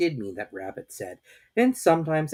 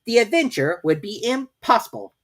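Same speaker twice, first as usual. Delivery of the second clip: solemn; 12 semitones higher, 7 dB louder than usual. A narrator's reading. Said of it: "said Rabbit solemnly".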